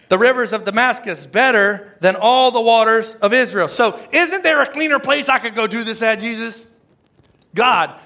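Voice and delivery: mock-whine like a man who wants it easier; whiny complaining Naaman. Preacher voicing Naaman begging God for an easier way, whiny plea.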